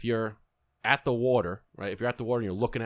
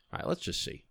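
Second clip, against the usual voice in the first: hushed aside; 5 semitones lower, 8 dB quieter than usual. Retold or imitated. Retold hushed aside to his wife.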